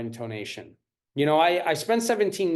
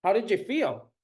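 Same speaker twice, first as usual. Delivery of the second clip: caring question; 5 semitones higher than usual. Shown as a demonstration. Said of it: "One of my favorite questions".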